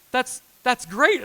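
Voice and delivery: unsure how to react; imitating a confused friend; baffled friend. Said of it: "And she's like".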